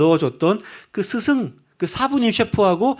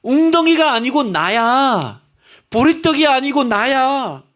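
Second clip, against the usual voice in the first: slow, loud, high voice of Jesus; slow tender divine plea; voice of the Lord; 5 semitones higher, 4 dB louder, slower than usual. Acted. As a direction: speak as Jesus calling them back, slowly. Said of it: "주님이 말씀하시는 거예요".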